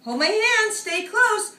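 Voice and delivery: high, loud mother hen instructions; caring mom. Acted. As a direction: keep the chick close. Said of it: "She says".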